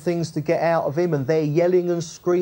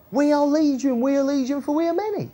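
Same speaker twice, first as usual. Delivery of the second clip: lightly mimicked high demon voices; demons answering; 8 semitones higher, faster than usual. Demons answer through the man, high-pitched mock reply. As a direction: imitate a crowd of demons in a raised pitch. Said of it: "it's the demons who answer".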